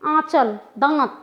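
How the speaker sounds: आंचल, दांत short with a light nasal vowel; quick nasal vowel. Shown as a demonstration. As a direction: say आंचल, दांत quickly, not through the nose. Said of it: "जल्दी से बोला".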